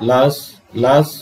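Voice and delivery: "লাস" on its own, firmly sounded; clear stressed syllable. Shown as a demonstration. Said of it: "স্পষ্ট করে উচ্চারণ করতে হবে".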